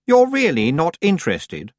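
high, slow doubtful question; uncertain. A narrator's reading. Anagramma checking Tiffany doesn't want the cottage, uncertain. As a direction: ask slowly, not quite believing it. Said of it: "said Anagramma uncertainly".

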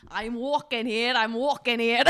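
put-on Scottish accent. Player attempting the assigned film quote, loud Scottish accent. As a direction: belt it out in a mock Scottish brogue. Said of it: "your accent is Scottish".

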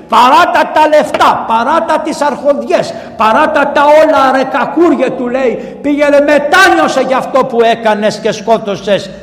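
high, insistent preaching harangue; fiery preaching. Acted. Preacher voicing the mother's rebuke, fiery sermon. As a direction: hammer each command home.

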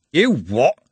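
loud, baffled retort; incredulous. Acted. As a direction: snap back in disbelief.

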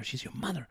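soft, with mother lifted high; stress on mother. Shown as a demonstration. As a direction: press the word mother. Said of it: "emphasis, mother".

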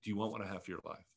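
soft, quick and quiet, like a still small voice. Retold or imitated. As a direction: say it gently, almost under your breath. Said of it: "He just says to me in a still voice".

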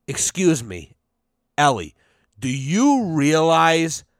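slow, deliberate indignation with heavy pauses; mock indignant speech. Host imagines confronting a broad over hash, slow indignant speech. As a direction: spell it out slowly, phrase by phrase.

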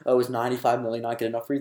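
fast, loud teasing jab; joking tease. Retold or imitated. James teasing Charlie about followers, fast joking jab. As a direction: needle a good friend for laughs. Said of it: "Like, as a joke".

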